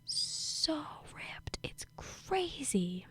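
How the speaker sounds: giddy whispered gush; excited whisper. Real, not acted. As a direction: whisper it like you can't believe how ripped he is. Gushing about a handsome man.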